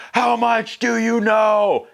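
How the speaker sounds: high, slow, unhinged villain voice; hammed-up crazed uncle voice; lunatic villain. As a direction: drag it out like a psychopath. Unc turns his rage on Nikki.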